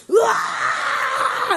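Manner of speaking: put-on high, wailing child's shriek; mock freak-out scream. Girl freaking out as the car pulls off, acted scream. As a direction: shriek like a kid losing it, imitated. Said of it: "she freaks out even more".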